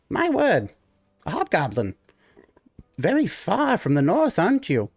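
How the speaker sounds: high, surprised little gnome; amazed at meeting a hobgoblin; gnome character voice. Acted.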